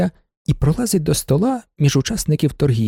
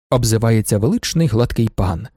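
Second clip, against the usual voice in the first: ordinary delivery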